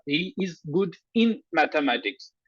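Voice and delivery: slow, deliberate model sentence with in held out. Shown as a demonstration. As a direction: spell out the right preposition slowly. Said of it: "preposition in". (धीमे, साफ़ उदाहरण वाक्य)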